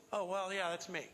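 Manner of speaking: casual, throwaway admission; offhand. Acted. Preacher mimics an unemphatic "I am", offhand. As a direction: toss it off as if it hardly matters. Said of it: "it's not just".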